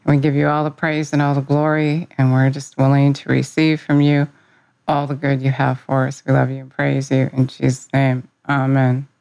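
earnest spoken prayer, even and steady. Real, not acted. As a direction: pray it sincerely to Jesus. Opening prayer to Jesus.

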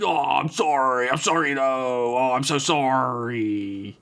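whiny, drawn-out apology; exaggerated pleading apology; mock apologetic. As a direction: stretch out the sorrys, hammed-up. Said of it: "he's apologizing with it".

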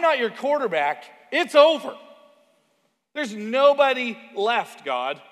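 high and loud, rushing plea; frantic pleading. Retold or imitated. Elijah frantically pleading with God about the score, high and loud. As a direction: beg God like a losing quarterback.

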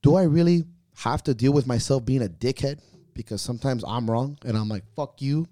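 venting like a coach who has had enough; exasperated inner voice. Retold or imitated. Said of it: "Sometimes you wake up and I'm like".

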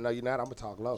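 talking low. Retold or imitated. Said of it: "I said".

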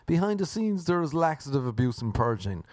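lightly imitating an earnest news report; news reporter. Reading out a girl's complaint, like reporting the news. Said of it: "like I was reporting the news".

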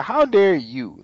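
slow, high mock outrage; a hint of Tulip snapping back; Tulip's outrage. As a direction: throw it back at God, drawn out. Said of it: "Tulip said".

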